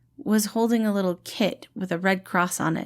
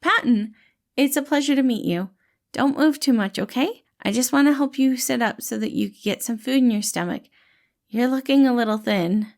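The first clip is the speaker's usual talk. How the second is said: higher, louder friendly reassuring voice; gentle dad-like rescuer, pitched up and bright; cheerful caretaker Patton; 5 semitones higher, 3 dB louder than usual. Acted. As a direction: play the kind, upbeat helper calming a scared kid. Patton greets waking Virgil.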